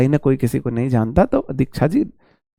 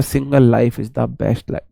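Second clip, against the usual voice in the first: slow quoted slogan; 5 semitones lower, 5 dB quieter, much slower than usual. Retold or imitated. Quotes a saying.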